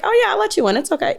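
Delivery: high sing-song fake kindness; teasing the husband with mock generosity; mock-generous teasing. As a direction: needle him by pretending you let him win. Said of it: "So I'll just be like".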